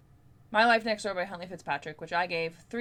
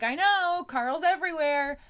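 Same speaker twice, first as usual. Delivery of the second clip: excited agreement; 7 semitones higher, 6 dB louder than usual. Retold or imitated. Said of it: "and I'd be like".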